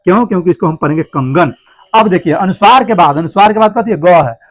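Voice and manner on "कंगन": कंगन read with ng; anusvara as ng. Shown as a demonstration. Teacher explaining how to read it, कंगन with ng. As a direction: say कंगन with ng before ग. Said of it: "इसलिए इसको पढ़ेंगे अंग".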